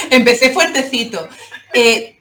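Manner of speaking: proud giggle over the words; laughing. Real, not acted. Guest laughs about her ambitious first comic, laughing.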